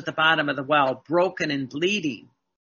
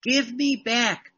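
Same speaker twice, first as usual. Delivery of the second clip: voicing Jesus; 6 semitones higher, slower than usual. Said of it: "Jesus says".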